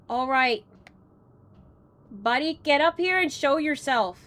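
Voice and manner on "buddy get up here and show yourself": put-on Canadian accent. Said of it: "his most threatening Canadian accent".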